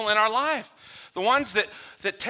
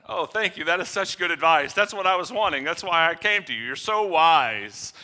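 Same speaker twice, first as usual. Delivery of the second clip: a light grateful gush, slowing at the end; hammed-up delight at being told what you wanted; pleased advice seeker; 4 dB louder than usual. Advice seeker thanking a friend for easy praise, mock delight. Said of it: "grateful advice-seeker".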